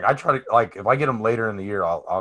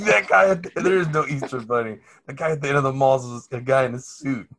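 lightly voiced excited kid; a hint of an indignant kid; 5 semitones higher, 4 dB louder than usual. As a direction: blurt it out like a shocked child. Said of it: "he's like".

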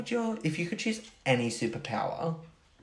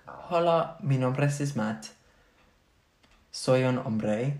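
Spanish phrase. Shown as a demonstration. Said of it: "Do you wanna hear a sentence?".

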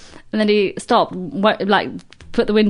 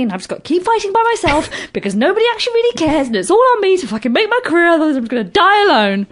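breathless run-on tirade climbing in pitch; mock self-pitying rant, building higher; worked-up rant; 5 semitones higher, much faster than usual. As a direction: pile clause on clause, rising towards desperation. Voicing a defensive know-it-all rant.

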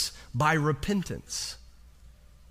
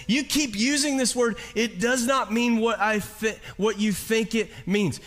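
"You keep using this word" in a higher, plainer retelling; lightly retold movie line, pitched up; quoting Inigo Montoya; 4 semitones higher than usual. Preacher requoting the movie line to the congregation, higher. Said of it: "He says".

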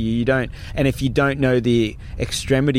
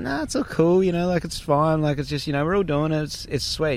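higher, breezy mock reassurance; imitated upbeat reassurance, pitched up; putting on positivity; 4 semitones higher than usual. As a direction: play down trouble to keep a friend going. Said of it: "had to keep the positive sign".

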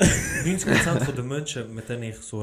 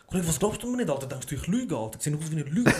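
mock annoyed. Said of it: "als wäre ich hässig".

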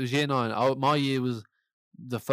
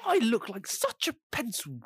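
mock regret; 11 semitones higher than usual. Mocking regretful student.

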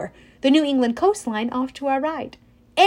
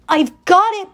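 through gritted teeth; 7 semitones higher, 5 dB louder than usual. A narrator's reading. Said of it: "gritting her teeth".

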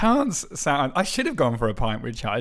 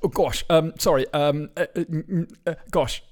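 Hugh Grant impression; 3 semitones higher than usual. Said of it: "that's my Hugh Grant".

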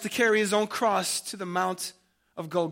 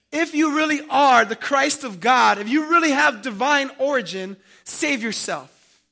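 loud, raised challenge slowing at the end; scoffing; 4 semitones higher, 6 dB louder than usual. Acted. Rulers challenging Jesus to prove himself, scoffing. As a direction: throw down a scornful dare. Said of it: "they scoffed at Jesus".

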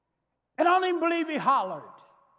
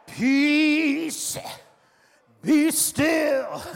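slow, loud, ringing command; commanding Jesus; 2 semitones higher, 3 dB louder, much slower than usual. Acted. Jesus commanding the storm to be still, slow and booming. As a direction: speak it like a king stilling the sea.

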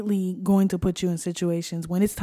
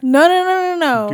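higher, louder no no no; high emphatic denial; 8 semitones higher, 5 dB louder than usual. Real, not acted. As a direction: protest high and fast. Protesting Arizona guess.

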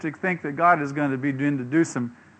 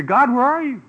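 dismayed cry; 7 semitones higher, 4 dB louder than usual. Retold or imitated. Defeated Israelites cry out.

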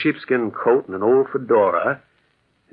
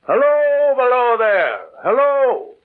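loud high shout down the slope; calling out; 12 semitones higher, 4 dB louder, slower than usual. Acted. Narrator calls again to the man on the tracks, shouting. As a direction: hail him again from far above. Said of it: "I called again".

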